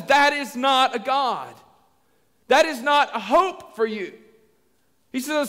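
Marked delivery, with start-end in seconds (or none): 0.0-4.1 slow, firm preacher's rebuke; measured, weighty denial; emphatic declaration. Acted. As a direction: pronounce it word by word.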